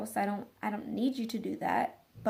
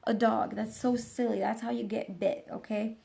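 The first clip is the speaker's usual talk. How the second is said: mock gushing visitor. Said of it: "You don't go in and".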